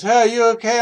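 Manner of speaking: imitating the driver calling out; concerned driver. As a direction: shout up to check on him. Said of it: "He goes, he goes".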